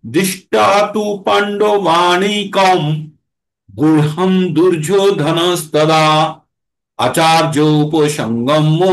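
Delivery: slow chanted Sanskrit verse; slow recitation. Shown as a demonstration. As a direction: draw each word out like scripture. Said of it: "তাহলে কিভাবে উচ্চারণ করব?".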